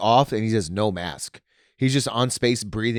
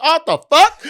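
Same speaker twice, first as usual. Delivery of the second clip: high, loud mock shriek of shock; imitated scream; 10 dB louder than usual. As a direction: act out a startled bystander screaming. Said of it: "he, like, screamed it".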